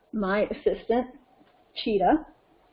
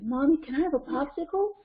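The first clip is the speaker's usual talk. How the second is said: put-on child asking; 4 semitones higher than usual. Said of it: "Cheetah comes up and says".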